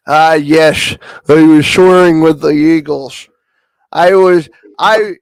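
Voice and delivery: hammed-up wise elder; Native American impression. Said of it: "Do the Indian voice for me".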